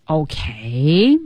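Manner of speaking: drawn-out, hesitant "okay"; halting lead-up. Acted. Marty getting ready to tell his wish, halting. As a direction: stretch it and hang before going on. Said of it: "Marty就说".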